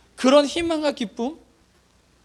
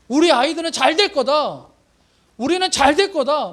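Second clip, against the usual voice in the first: confident declaration; 4 semitones higher, 3 dB louder than usual. Retold or imitated. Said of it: "믿음의 말을 막 하는 거예요".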